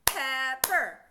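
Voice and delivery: two strong punched beats on Rubber; clapped syllables. Shown as a demonstration. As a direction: clap out each part of Rubber. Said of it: "Let's clap pepper".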